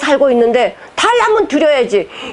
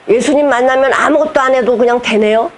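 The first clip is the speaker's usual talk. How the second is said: questioner's query. Retold or imitated. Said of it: "어떤 분이 이런 질문을 하더라고".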